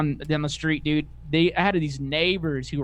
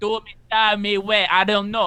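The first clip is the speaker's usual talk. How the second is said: put-on drunk Cajun accent, higher and louder; 5 semitones higher, 5 dB louder than usual. Retelling what a drunk friend said: imitating a drunk friend's Cajun accent. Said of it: "he's Cajun as fuck".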